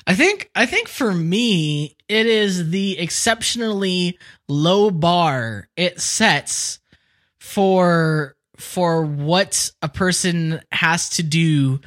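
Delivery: talking through a burp; words pushed out on a burp. Real, not acted. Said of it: "Oh, excuse me, big old burp".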